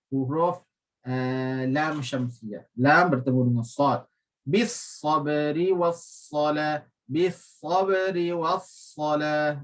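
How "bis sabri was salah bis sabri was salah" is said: sabri with heavy rounded sad; thick sad. Shown as a demonstration. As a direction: recite slowly, sad full. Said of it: "Sad dibaca tinggi". (sad dalam sabri dibaca tebal)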